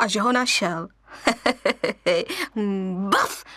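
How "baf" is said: high playful boo; playful shout. Acted. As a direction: jump out with a squeal. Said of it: "vykřikl lvíček".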